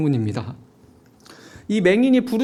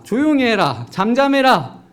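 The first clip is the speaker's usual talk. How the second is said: louder and higher irritated hush; rising scolding; 4 semitones higher, 5 dB louder than usual. Retold or imitated. Annoyed crowd hushing the beggar, rising scolding.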